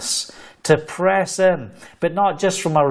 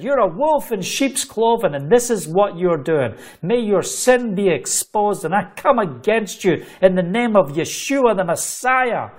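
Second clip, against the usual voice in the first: mildly raised, accusing declaration; retold rebuke; 4 semitones higher than usual. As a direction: re-enact calling out a sinner in church. Confronts a preacher mid-prayer.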